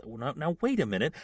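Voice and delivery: acted nervous hedging; wary protest. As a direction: hold off an advancing attacker. Luke protests as scavenger advances.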